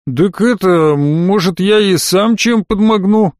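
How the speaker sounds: slow country drawl; folksy cabby. A narrator's reading. Cabby offers help.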